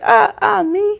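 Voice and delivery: high, startled mock-innocent squeak; Mercury acting innocent. Streamer voicing Mercury feigning innocence, high and mock-startled. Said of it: "Mercury's like".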